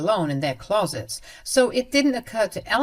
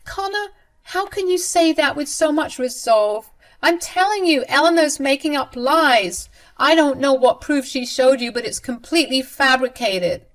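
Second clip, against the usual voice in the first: high, louder protesting denial; indignant mother-in-law; 8 semitones higher, 6 dB louder than usual. Acted. Mother-in-law denying the theft to her son, high and indignant. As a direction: deny everything in a high huff.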